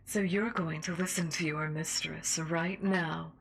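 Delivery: menacing seductive host voice; sinister mistress. Acted. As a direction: taunt him like a cruel mistress. Sinister radio host role.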